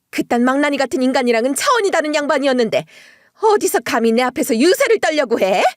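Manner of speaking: hammed-up outraged mother-in-law tirade; furious mother-in-law. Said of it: "노발대발 하시더라고요".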